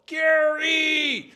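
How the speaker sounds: sudden high, loud yell of a name; shouted name from across the house; dad's yell. Retold or imitated. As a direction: call him out like a furious dad. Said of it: "Then we hear my dad yell".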